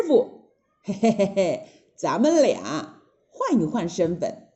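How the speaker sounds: slow, impish, chuckling plan; scheming Monkey King. Acted. Monkey tells his master the swap plan, impish. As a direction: hatch the trick with a grin.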